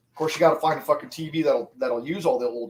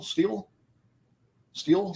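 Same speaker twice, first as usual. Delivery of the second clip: incredulous question; 5 semitones higher than usual. Retold or imitated. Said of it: "like the metal?".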